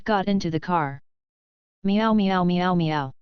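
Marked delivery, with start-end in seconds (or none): 1.8-3.1 slow drawn-out fake meows; cat imitation. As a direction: meow like a cat to cover noise. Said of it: "Huang Su sang a one-man show".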